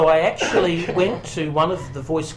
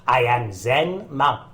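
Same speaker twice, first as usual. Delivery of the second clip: slow, measured Zen monk in a mock Asian accent; Yoel and Lim impersonation; slower than usual. Actor demonstrating his radio ad for hosts, slow Zen monk impersonation. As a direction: put on a serene commercial guru with an accent. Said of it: "I did my best Yoel and Lim impersonation".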